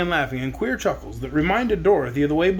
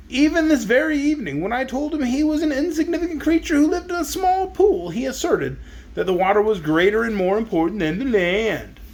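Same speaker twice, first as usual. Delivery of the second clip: lightly raised, indignant zebra; 5 semitones higher than usual. Acted. Zebra complaining about the crab, a touch higher. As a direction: complain with mild lofty annoyance.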